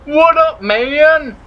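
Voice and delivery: put-on high, wheezy old man greeting; old person voice. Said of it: "Is that, like, part old person voice?".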